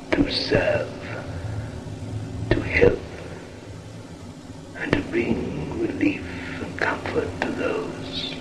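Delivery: slow, hushed and solemn, half whispered; solemn whispered sermon. Acted. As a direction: intone it like a spirit blessing the circle. Spirit guide addresses circle.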